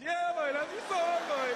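high, slow Trinidadian cheer; Trinidadian accent. Retold or imitated. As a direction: praise it in a high island lilt. Trinidadian man approving song.

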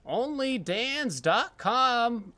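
put-on slow, drawn-out old man voice. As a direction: stretch it out like an old geezer. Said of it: "I said it with an old man voice".

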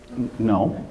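stammered, mock-evasive no; exaggerated hesitant denial. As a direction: stumble into an overdone denial. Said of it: "I'm making them big".

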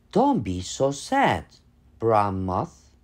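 a lightly voiced small gentle creature; little voice. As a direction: comfort her in a tiny voice. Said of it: "said a little voice".

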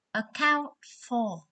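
"Account for." said slowly, each syllable clear; slow it down so students can copy "Account for."; slow, careful "Account for." for the class; slow repeat. Shown as a demonstration.

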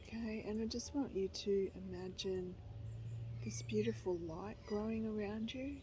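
gentle, even meditation voice; guided meditation. Real, not acted. Leading viewers through a short guided meditation, calm guiding voice. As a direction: guide them calmly, pausing between phrases.

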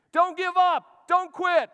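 a high, loud shout from the corner; corner man yelling. Retold or imitated. Corner man yells at his fighter in the cage, loud shout. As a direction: scream encouragement at a fighter in the cage. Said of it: "He's yelling at him".

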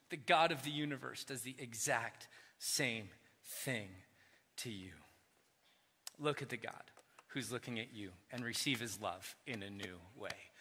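low, soft, intimate; soft earnest close; hushed and soft. Acted. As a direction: draw them close quietly. Soft climactic appeal.

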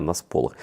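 "на сполох" with a clear о, СПО-лох, not спалах; corrected "сполох". Shown as a demonstration. Vlogger repeating the viewers' correction, careful pronunciation. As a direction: say "сполох" with o in both syllables. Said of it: "люди написали мені".

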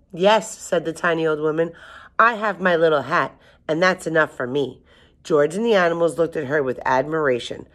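measured read-aloud storybook voice; story narration. A narrator's reading. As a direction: read a picture book to children, lilting on the dialogue.

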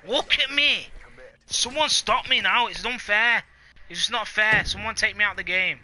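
high, hammed-up gloating; mock gloating. Hammy gloating about winning.

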